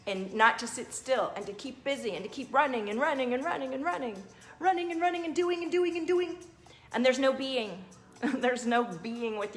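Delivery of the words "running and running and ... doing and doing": sing-song repetition climbing higher; relentless busyness. Acted. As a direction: chain the words together, pitch rising as it builds.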